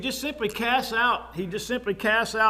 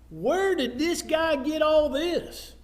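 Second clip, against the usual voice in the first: higher, drawn-out disbelief; mock incredulity; 5 semitones higher, slower than usual. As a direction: question it slowly like a sceptical townsman. Acts out sceptical townsfolk.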